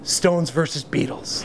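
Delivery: slow, weighty finish; drawn-out, deliberate final pronouncement; punchline drop. Acted. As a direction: let it land slowly. Dramatic speech drops for punchline.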